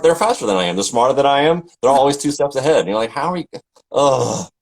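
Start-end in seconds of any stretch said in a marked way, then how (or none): 3.1-4.5 mock-baffled groan at being outpaced; exasperated parent. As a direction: act out a worn-out parent's bafflement. Voicing exasperated parent to kids.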